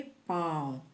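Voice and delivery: पाँव with the long aa sounded through the nose; पाँव nasalised, teaching tone; nasal vowel. Shown as a demonstration. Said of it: "इसका उच्चारण कैसे करेंगे?".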